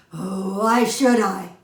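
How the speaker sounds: a lightly voiced gruff lion; growling lion. A narrator's reading. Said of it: "the lion growled again".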